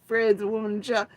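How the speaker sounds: high, loud whiny mock cry; fake-cry the accusation; mock whining. Mimicking Jeannie and Andy, high whiny mock cry. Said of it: "Jeannie and Andy are like".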